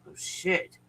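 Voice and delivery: unvoiced oh shit; whispered curse. Real, not acted. Vlogger to viewers, whispering. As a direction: breathe the curse out. After holding breath.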